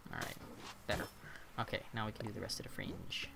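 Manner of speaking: soft whisper to herself. Real, not acted. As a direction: whisper it while concentrating. Whispered while fixing fringe.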